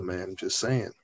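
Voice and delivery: monotone, real chill villain talk; low, soft, unbothered drone; Lex Luthor. Retold or imitated. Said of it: "The monitor talking, real chill".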